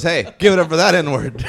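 high, loud emcee call; announcer call-out. Retold or imitated. Comic voicing a headliner introducing the act, high loud call. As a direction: shout it like a club host. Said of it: "he goes".

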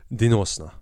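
säg det på slutet av en utandning; låt orden följa med luften ut; på utandningen. Retold or imitated. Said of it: "på utandningen". (på utandning i slutet)

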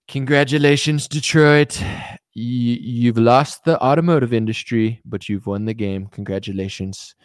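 lightly voiced candidate congratulating a city; stately congratulations with a sly campaign plug; mock politician's address.

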